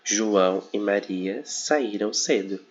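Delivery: slow, each word set apart, with SAÍRAM leaning forward; careful demo of "saíram" after the subject; slow example read. Shown as a demonstration. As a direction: read out "João e Maria saíram cedo" slowly, subject first. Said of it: "antes do verbo".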